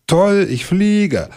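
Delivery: very high, very slow, elated; thrilled. Acted. Bear dropping from the tree, very high and thrilled. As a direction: savour the moment of flight with glee.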